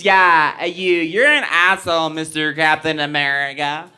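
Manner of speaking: lightly voiced angry woman; mock yelling lady.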